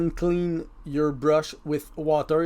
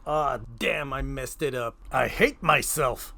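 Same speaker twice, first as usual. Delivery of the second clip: mock dismay; 4 semitones lower, 3 dB quieter than usual. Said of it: "sometimes it's like".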